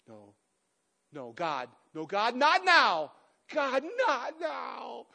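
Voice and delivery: drawn-out mock wail, begging God; emotional crying, retold. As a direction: act out a tearful plea building to a loud, high wail. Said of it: "like, emotionally crying".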